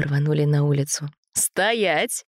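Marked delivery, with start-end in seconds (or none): 1.3-2.2 sharp command. A narrator's reading. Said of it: "Очередной окрик бабушки".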